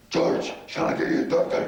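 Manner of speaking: whispered wife's question, laughing. Retold or imitated. Wife offering a doctor, whispered. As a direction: breathe it out like the worried wife. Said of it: "She says".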